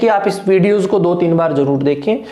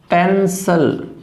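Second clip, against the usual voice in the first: slow demo word; much slower than usual. Shown as a demonstration. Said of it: "अब देखिए पेंसिल".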